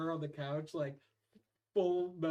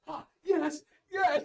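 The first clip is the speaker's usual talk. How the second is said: mock excited stoned dad, higher and louder; 10 semitones higher, 10 dB louder, much slower than usual. Dad coming up from the basement, giddy high yes.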